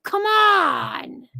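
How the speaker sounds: fed-up plea to a reckless YouTuber, shouted; exasperated shout. Real, not acted. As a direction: throw up your hands and shout it out slowly.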